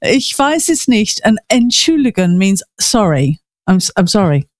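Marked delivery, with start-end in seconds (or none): 0.0-1.2 Ich weiß es nicht spoken slowly with German vowels, weiß said as vice; careful German. Shown as a demonstration. Co-host models the correct German for the host. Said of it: "But you say a V sound".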